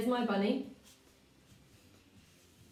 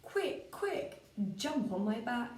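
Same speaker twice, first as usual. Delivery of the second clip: bunny voice; 3 semitones higher, slower than usual. Acted. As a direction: squeak it out like an eager rabbit. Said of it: "The bunny said".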